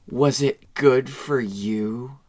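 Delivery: put-on seductive, honeyed, sultry, with "you" drawn out. Retelling a scene, a woman's line after she destroys a robot, imitating a sultry voice. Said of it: "she very sultrily goes".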